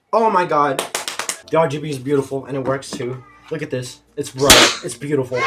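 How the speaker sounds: can't contain the joy at the glowing keys; thrilled. Real, not acted. Teen seeing his new keyboard light up, excited gushing.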